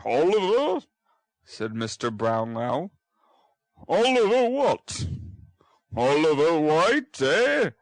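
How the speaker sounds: startled questioning; puzzled old gentleman. Acted. Brownlow is puzzled by the boy's name.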